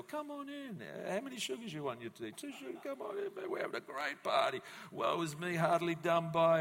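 high, jolly party host voice, hammed up; mock party host. Pity party host welcoming guests in, high and hammed-up. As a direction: invite everyone in, jokey and high.

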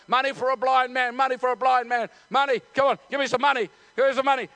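lightly voiced beggar's cry; begging call. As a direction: call out for coins in a repetitive chant. Blind beggar calling out for money.

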